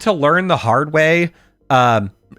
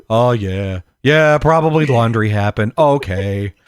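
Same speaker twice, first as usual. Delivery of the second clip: lower-pitched, deflated retold admission; sheepish concession; 6 semitones lower than usual. Realizing mom did laundry, low sheepish acceptance. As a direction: give in, mildly embarrassed.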